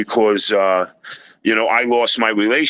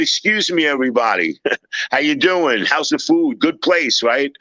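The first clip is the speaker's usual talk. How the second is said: higher-pitched retold public address; addressing the room; 3 semitones higher than usual. Man addressing diners in a packed restaurant, mock-public announcement. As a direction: play at working the restaurant crowd. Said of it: "I went like this".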